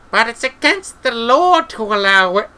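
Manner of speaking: high, agitated character voice; high protest. A narrator's reading. Treatle objecting to a witch, high protest. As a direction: protest in a high voice until cut off.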